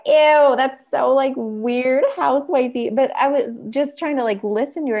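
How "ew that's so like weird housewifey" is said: disgusted. Retold or imitated. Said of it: "at first I was like".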